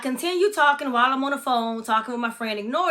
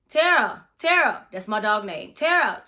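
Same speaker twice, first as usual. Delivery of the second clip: raised call for the dog. Retold or imitated. Calling for her dog Tara, raised voice. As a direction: call the dog's name down the hall.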